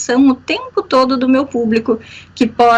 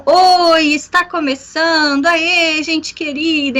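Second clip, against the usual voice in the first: explosive podcast opening; 4 semitones higher, slower than usual. Shown as a demonstration. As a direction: greet the listeners with a burst of energy. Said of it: "palavras e expressões com entonação explosiva". (abertura explosiva e animada)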